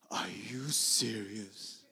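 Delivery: slow, hushed whisper; awed whisper; stunned hush. Retold or imitated. Bob stunned at the news.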